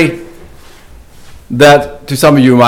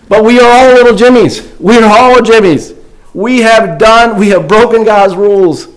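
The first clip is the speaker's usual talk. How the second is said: higher, lifted preacher's appeal; preaching; 3 semitones higher than usual. Acted. Pastor urges his church that all are sinners, preaching. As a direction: drive the point home to the congregation.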